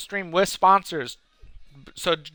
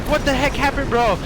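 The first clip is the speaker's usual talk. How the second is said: upset disbelief; 9 semitones higher, 3 dB louder than usual. Retold or imitated. Acted upset question to prankster friend.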